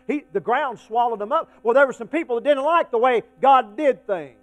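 loud, emphatic pulpit delivery; forceful preaching. Acted. Preacher recounts the rebels' fate, forceful preaching. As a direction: drive the judgment home with volume.

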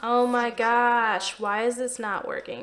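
exasperated. Real, not acted. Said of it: "I'm getting really frustrated".

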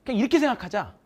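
excited encouragement. Retold or imitated. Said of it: "나름 열심히 했대".

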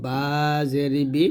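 বা জের বি with both lips meeting; lips-closed ba. Shown as a demonstration. Teacher shows the lip letter, closed-lip বা and বি. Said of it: "দুই ঠোঁট মিল করে".

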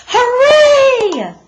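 high, loud cheer of triumph; cry out. Acted. Boy cheers up the shaft, loud and high. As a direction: shout it up from the shaft. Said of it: "Stanley cried out".

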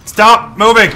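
insistent command. Real, not acted. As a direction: order the target sharply to hold still. Repeated order, more forceful.

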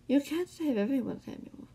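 high, lightly amused taunt. A narrator's reading. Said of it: "the man chuckled".

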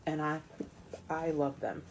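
talking through hiccups; words caught by a hiccup. Real, not acted. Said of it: "I've got the hiccups".

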